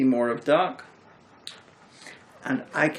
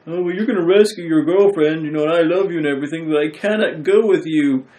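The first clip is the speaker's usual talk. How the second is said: mock witch farewell; 3 semitones higher, 6 dB louder than usual. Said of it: "and she's like".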